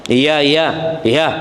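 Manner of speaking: mildly sulky, reluctant yeses; grudging yes. Shown as a demonstration. A child half-heartedly agreeing with a parent, mildly grudging. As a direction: say yes but let the annoyance leak through. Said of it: "nggak enak".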